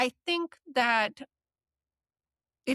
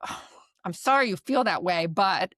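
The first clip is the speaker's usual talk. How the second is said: curt apology leading into a but; dismissive; 2 semitones lower, 3 dB louder than usual. Shown as a demonstration. Therapist showing a dismissive apology before arguing back. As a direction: brush their feelings aside. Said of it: "If you say it in a way where".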